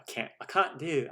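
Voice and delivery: Southern attempt slipping into British; muddled amateur British accent; accidental British accent. Shown as a demonstration. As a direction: slip clumsily into a British accent. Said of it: "just going into a British".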